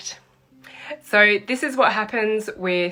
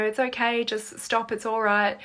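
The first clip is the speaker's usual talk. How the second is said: soothing a bird; 3 semitones higher than usual. Retold or imitated. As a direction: hush it gently like a frightened bird. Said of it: "You tell it, you know".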